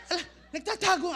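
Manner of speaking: quick words through laughter; real laugh breaking through. Real, not acted. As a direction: rattle it off while chuckling. Laughs at his own joke.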